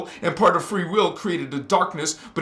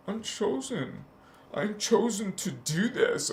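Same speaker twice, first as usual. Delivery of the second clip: mock boast; 3 semitones higher, 8 dB quieter than usual. Mocking the chosen-people boast.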